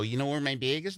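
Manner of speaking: "bag" said as "bayg"; Wisconsin pronunciation. Retold or imitated. Newcomer in Los Angeles asking around, "bag" as "bayg". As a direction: ask with "bag" rhyming with vague. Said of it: "We say bag".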